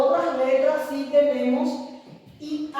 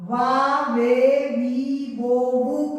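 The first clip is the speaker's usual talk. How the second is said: sounding out syllables; slower than usual. Shown as a demonstration. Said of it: "entonces va".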